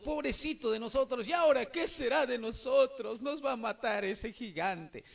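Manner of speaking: lamento asustado, algo más agudo al empezar; con miedo. Acted. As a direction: imitando a soldados con un poco de miedo. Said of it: "con miedo". (quejido temeroso fingido)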